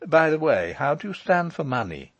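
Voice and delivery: kindly. A narrator's reading. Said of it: "asked Michael kindly".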